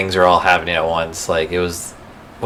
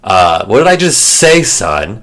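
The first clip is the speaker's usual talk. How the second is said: mock stern Mufasa; 3 dB louder, slower than usual. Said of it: "mocking the scene".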